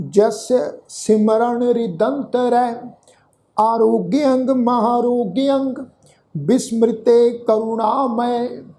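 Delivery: slow, measured Gurbani recitation; scripture recitation. Shown as a demonstration. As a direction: draw out each word of the verse. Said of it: "repeat ਜਿਹੜਾ ਹੈ ਉਚਾਰਨ ਕਰਦੇ".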